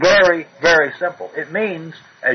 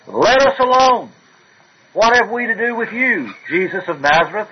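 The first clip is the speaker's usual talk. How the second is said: demon voice; 6 semitones higher than usual. Retold or imitated. Evil spirit recognizes the Savior.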